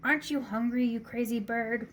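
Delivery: mayor wailing at the stubborn rooster. Acted. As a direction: plead at the bird in dismay. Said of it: "wailed Don Pepe".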